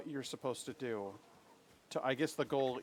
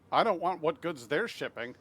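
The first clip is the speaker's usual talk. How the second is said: alarmed outburst; 6 semitones higher, 8 dB louder than usual. Real, not acted. Recoiling from game shipment.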